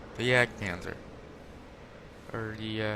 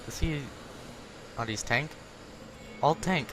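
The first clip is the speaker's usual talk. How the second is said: mock Russian accent; 2 semitones higher, 4 dB quieter than usual. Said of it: "I'm not gonna do the Russian accent".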